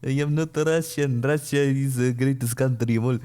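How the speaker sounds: mock-Russian patriotic declaration; lightly hammed-up Russian; fake Russian accent. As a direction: put on a bad Russian accent. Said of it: "fake a Russian accent".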